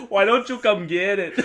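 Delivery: lightly put-on Mexican accent. A hint of a Mexican accent taunting the cop. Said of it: "now you're doing, like, a Mexican accent".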